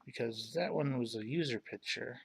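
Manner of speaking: hushed aside to self; whispering. Real, not acted. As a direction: whisper it under breath. Muttering while browsing pictures.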